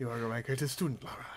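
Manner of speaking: Liam Neeson impression. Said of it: "Liam Neeson as Von Croy".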